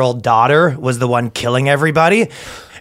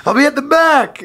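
creepy sleazy come-on; 12 semitones higher than usual. Pretend. Same creepy voice.

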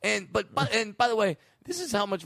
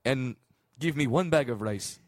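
put-on African accent; 4 semitones lower than usual. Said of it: "doing African accent".

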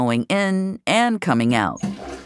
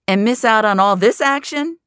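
grinning; 10 semitones higher, 5 dB louder than usual. A narrator's reading. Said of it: "he says, grinning".

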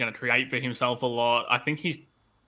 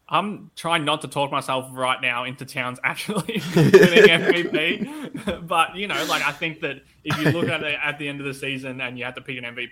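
laughing; 3 semitones higher, 5 dB louder than usual. Real, not acted. Laughs at own MVP hype.

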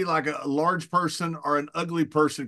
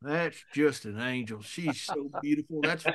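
softer, hushed and adoring; dreamy gushing; 7 dB quieter than usual. Retold or imitated. Bart, a few beers in, gushing softly about the singer on TV. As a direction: gush over her like a man in love.

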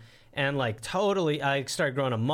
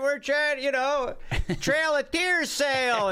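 mock car salesman; 10 semitones higher than usual. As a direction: sell it like a cheesy car dealer. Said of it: "They're like".

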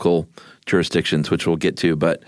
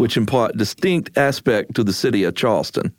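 put-on old Southern accent; 4 semitones higher than usual. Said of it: "I was gonna do an old Southern thing".

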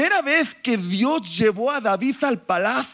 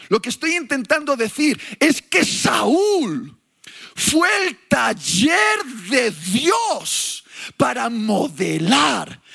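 impassioned preaching; 2 semitones higher than usual. Acted. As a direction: hammer the point home.

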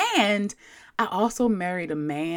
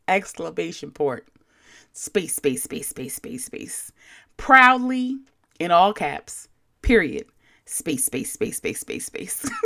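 mock polite reply; 2 semitones higher than usual. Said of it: "So I politely responded with".

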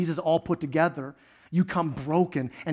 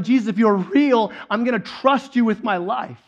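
a touch of a yell, louder than talk; retold yell; 2 semitones higher, 5 dB louder than usual. Peter yelling his trust to Jesus, mild retold yell. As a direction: call it out with mild force. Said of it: "what's Peter yelling? He's yelling".

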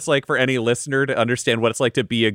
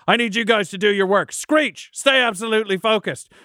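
a lightly voiced commander giving orders; Marith rallying troops; 6 semitones higher than usual. Marith orders the werefolk to fight defensively, lightly voiced. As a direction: rouse the troops, firm and brisk.

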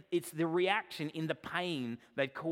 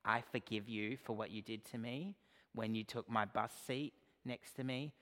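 passive-aggressive forgiveness; 4 semitones lower, 8 dB quieter than usual. Retold or imitated. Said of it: "passive-aggressively going to somebody and saying".

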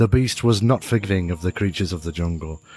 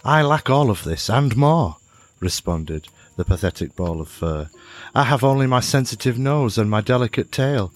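self-pitying creature; 4 semitones higher than usual. Acted. Creature laments its weakness.

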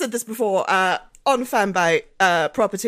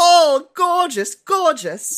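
put-on posh British accent; 5 semitones higher, 4 dB louder, much slower than usual. Mock posh praise, slow and loud.

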